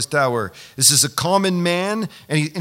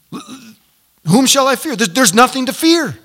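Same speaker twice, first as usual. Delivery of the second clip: loud, raised-pitch preaching; emboldened declaration; 8 semitones higher, 7 dB louder than usual. Acted. Preacher recalling being saved from fear, emboldened and loud. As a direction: proclaim it boldly at high volume.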